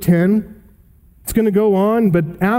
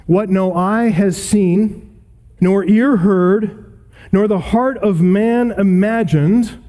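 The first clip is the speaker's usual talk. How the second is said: slow scripture reading; slower than usual. Acted. Reading scripture quote slowly.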